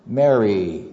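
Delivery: lightly voiced Jesus, calling her name low and gently; tender recognition. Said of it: "in a voice that Mary immediately recognized".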